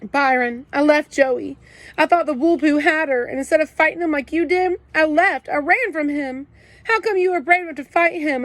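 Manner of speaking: high, loud sobbing confession; crying. A narrator's reading. Kenny confesses to Byron about Joey, high and sobbing. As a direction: pour it out between sobs. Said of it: "I couldn't stop crying".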